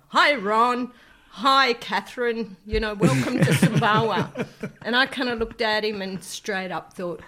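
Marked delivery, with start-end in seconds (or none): 0.1-4.5 put-on Australian accent. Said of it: "in his very Australian accent says".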